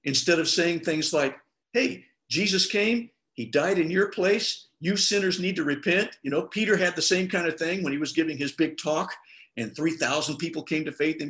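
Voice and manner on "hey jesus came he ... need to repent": blunt, direct. Retold or imitated. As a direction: spell it out bluntly, phrase by phrase. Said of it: "for being rather direct about the gospel".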